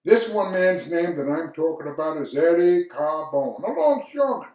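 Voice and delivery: lightly acted stage monologue, key phrases lifted; lawyer Alfieri. Lawyer telling of his Red Hook neighborhood, lightly acted narration. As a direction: play a reflective narrator, lightly theatrical. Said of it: "I'm gonna do a monologue".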